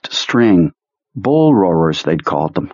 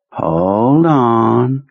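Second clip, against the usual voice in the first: tender; 3 semitones higher than usual. Acted. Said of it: "Kurtz said tenderly".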